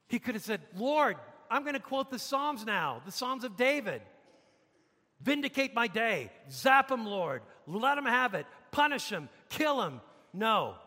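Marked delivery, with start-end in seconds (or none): 0.8-10.0 raised, punchy calls for vengeance; mock vengeful prayer. Preacher voices what stoned Stephen could have prayed, mock vengeful plea. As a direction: call down punishment in a hammed-up prayer.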